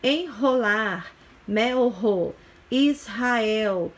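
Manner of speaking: "Enrolar, melro, Israel" each with a strong h-like R after the consonant; R forte após consoante. Shown as a demonstration. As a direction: sound out "Enrolar, melro, Israel" word by word, R aspirated. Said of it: "esse R fica forte". ("Enrolar, melro, Israel" com erre forte e aspirado)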